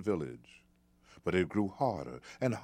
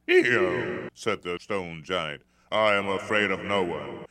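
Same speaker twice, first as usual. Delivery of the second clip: proud giant; 6 dB louder than usual. Acted. Giant insulted, boasting.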